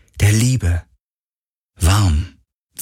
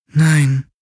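ghost voice; 9 semitones higher than usual. Acted. Ghost answers, high voice.

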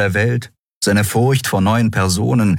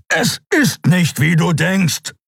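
high, emphatic plea; desperate insistence; 12 semitones higher, slower than usual. Acted. Kero holding Kai tight to explain, desperate insistence. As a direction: insist urgently, pitch raised.

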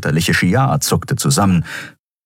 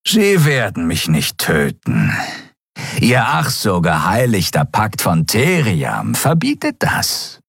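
lightly voiced defiant reptile, words drawn into a sneer; taunting reptile captive. Captive reptile defies the admiral, taunting. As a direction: speak as a scornful alien prisoner.

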